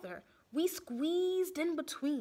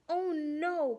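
worried cry; 4 semitones higher, 3 dB louder than usual. Acted. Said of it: "cried Dorothy Ann".

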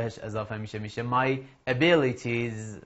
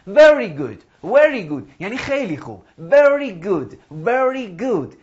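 louder, emphatic Very good with a falling tune; model word drill; 5 semitones higher, 6 dB louder, slower than usual. Shown as a demonstration. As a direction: drill it so the class echoes. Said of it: "واژه هایی که میگم و بعد من بگین".

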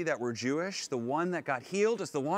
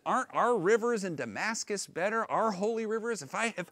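offended; 6 semitones higher than usual. Retold or imitated. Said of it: "just completely offended".

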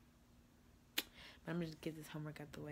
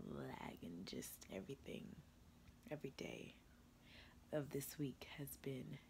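whispering; 3 semitones lower, 4 dB quieter than usual. Real, not acted. Tired late night whisper.

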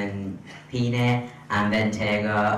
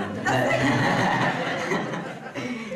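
short sheepish laugh; embarrassed laugh; 10 semitones higher than usual. Real, not acted. Laughs at unpaid actors.

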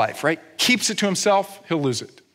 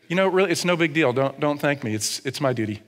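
offhand son. Acted. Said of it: "And you're gonna say".

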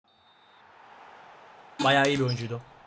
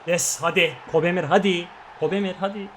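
excited cheer; 3 semitones higher, 4 dB louder than usual. Real, not acted. Cheering his player on.

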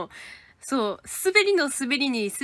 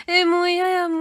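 high, loud flustered protest; 7 semitones higher, 8 dB louder than usual. Real, not acted. Reading fan comments on stream, loud flustered protest. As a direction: cry out in playful dismay.

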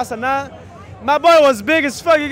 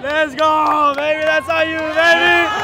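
frat bro; 2 semitones higher, much slower than usual. Real, not acted. Celebrating winner.

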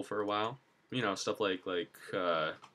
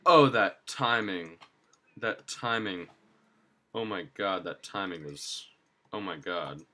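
excited. Real, not acted. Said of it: "easily excited as usual".

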